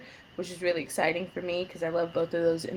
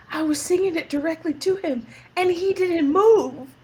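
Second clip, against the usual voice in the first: mock incredulous castmates; 9 semitones higher, 4 dB louder than usual. Castmates complaining to her, high disbelief. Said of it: "and they were like".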